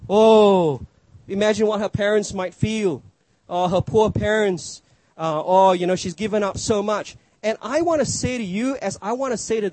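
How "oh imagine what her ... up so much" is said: pitying churchgoer. Retold or imitated. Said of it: "people ... who actually feel sorry for her".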